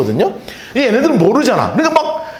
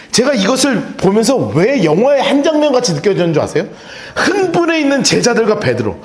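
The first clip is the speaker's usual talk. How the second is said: ordinary delivery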